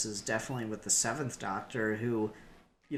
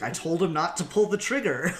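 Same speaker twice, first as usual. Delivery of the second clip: higher, louder mock exclamation; lightly acted, raised-voice protest; mock protesting Doctor; 5 semitones higher, 5 dB louder than usual. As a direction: throw it out as a comic I-told-you-so. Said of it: "it's like".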